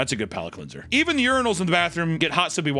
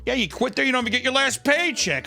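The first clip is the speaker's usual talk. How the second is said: mock boss; 9 semitones higher than usual. Acts out boss refusing paycheck.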